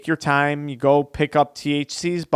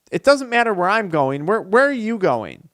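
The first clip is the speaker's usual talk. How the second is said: sly; 4 semitones higher than usual. Acted. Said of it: "real sly".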